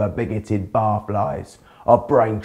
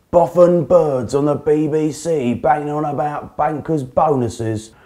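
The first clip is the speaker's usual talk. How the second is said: pub bigot rant; 3 semitones higher than usual. Acted. Barry ranting in the pub.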